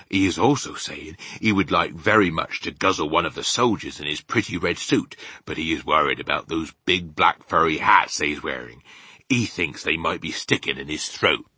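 lightly voiced rustic giant; BFG, chatty. Giant telling Sophie about the furry hats, chatty. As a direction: tell it simply as a folksy giant.

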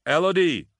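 loud, high-pitched shout of a name; booming call. A narrator's reading. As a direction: boom it down from far above. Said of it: "Bonin's voice boomed down to her".

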